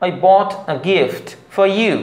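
slow example sentence, "for you" as "faw you"; R silent. Shown as a demonstration. Teacher giving an example sentence slowly, R silent. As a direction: spell out each word, no R in "for you". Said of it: "এরকম".

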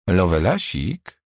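slow, teasing sarcastic jab. Acted. Doctor teases Rudi about his nickname, sarcastic. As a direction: drawl it with mockery. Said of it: "rzuciła z przekąsem".

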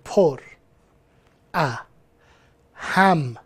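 پر، ا، هم as softened, separate syllables. Shown as a demonstration. Teacher dividing the word into syllables, syllable by syllable. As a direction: leave a pause after each of پر، ا، هم. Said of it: "هجابندی کن".

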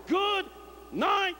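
the preacher slamming the casket, shouting a high drawn-out goodbye; preacher's yell. Retold or imitated. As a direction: draw out the farewell with full force. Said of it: "He yelled".

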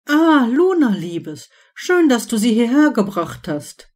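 light up and call out her name; delighted hostess greeting her girlfriend; beaming with joy. Acted. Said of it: "rief Hermine nun freudestrahlend aus".

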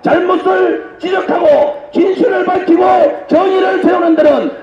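shouted vow to fight on; rally the comrades to fight; roaring rallying speech. Real, not acted.

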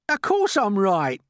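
loud, slow, high indignation; self-righteous earthworm. Acted. Earthworm answers centipede's grudging agreement, indignant. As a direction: insist on it, affronted.

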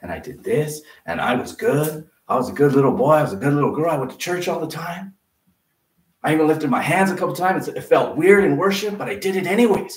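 hammed-up pleading of good works; mock boastful churchgoer. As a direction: brag to God about being a good little kid. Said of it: "you're gonna say".

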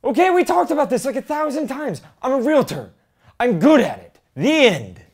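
high, loud frustrated yell; shouting. Acted. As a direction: blow up at her, fed up. Husband yelling back at wife.

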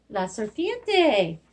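slow, careful repeat; slow modelling. Shown as a demonstration. Teacher repeating the word for kids, slow and clear. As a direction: spell it out with your voice. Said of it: "teacher repeats word slowly".

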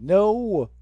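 a short no in a put-on Russian accent. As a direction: snap it out like a Russian officer. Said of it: "my Russian accent's dying".

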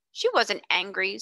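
dismayed but firm. Acted. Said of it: "a trifle dismayed, but still firm".

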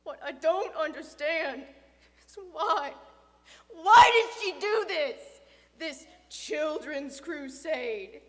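loud, emphatic grieving questions; anguished bewilderment. Acted. Father questioning dead daughter's crusade, anguished. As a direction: demand an explanation out of grief.

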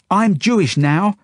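high, loud, slow declaration; defiant shout. A narrator's reading. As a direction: shout back stubbornly. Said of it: "she shouts back".

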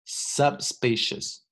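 subspecies with the b barely there, almost sup-species; weak b in subspecies. Shown as a demonstration. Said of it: "这个B非常非常的弱".

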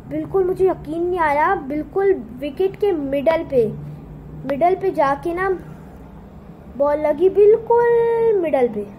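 retold excitement. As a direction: relive the thrill of hitting the middle stump, building up. Retelling the winning wicket ball. (उत्साह से, आवाज़ ऊँची और तेज़ होती हुई)

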